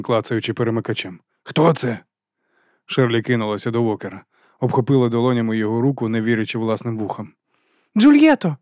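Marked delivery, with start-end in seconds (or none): 1.4-2.0 mild call, slightly raised. A narrator's reading. Walker clicking the switch to ask who it is, calling out. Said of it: "гукнув він". 8.0-8.6 high, loud cry of the name; scream. A narrator's reading. Sherly hears Juliette on the headset, screaming her name. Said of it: "закричала вона".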